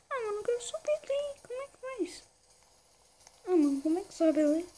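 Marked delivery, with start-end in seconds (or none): 0.1-2.2 muttering to self. Real, not acted. Muttering to self while climbing.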